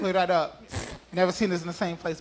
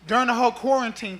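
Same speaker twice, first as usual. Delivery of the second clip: laughing; 3 semitones higher than usual. Real, not acted.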